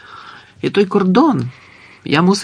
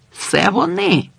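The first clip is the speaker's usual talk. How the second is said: high wild cry; crazed cry; 10 semitones higher, slower than usual. Acted. The old man cries out before leaping at the guard. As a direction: cry out madly. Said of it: "скрикнув дід".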